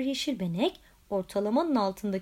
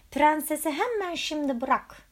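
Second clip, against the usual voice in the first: roaring; 5 semitones higher than usual. A narrator's reading. Frog knight orders the dragon, roaring. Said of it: "diye gürledi".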